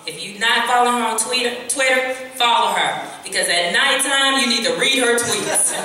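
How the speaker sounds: excited. Real, not acted. Excited hype for Heather's tweets.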